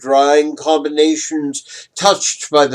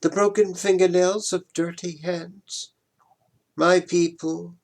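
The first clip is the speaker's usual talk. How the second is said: usual speaking voice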